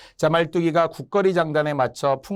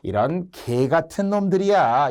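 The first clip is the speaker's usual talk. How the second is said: slow, drawn-out jeer; lightly acted taunt; mild mockery; slower than usual. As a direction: poke fun at the nobles, taking your time. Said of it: "이런 식으로 약간 조롱을 한 거예요".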